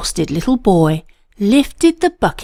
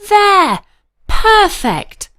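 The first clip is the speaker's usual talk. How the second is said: high, bright, proud exclaim; proud announcement; 10 semitones higher, 3 dB louder, slower than usual. A narrator's reading. Boy proudly announcing the buckets are loaded. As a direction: show off the finished job. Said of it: "he announced with pride".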